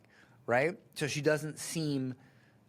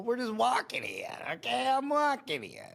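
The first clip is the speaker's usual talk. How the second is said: mock indignant man; 9 semitones higher than usual. Reacting to a wife's video, a mock indignant husband. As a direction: play a put-upon guy, hammed up.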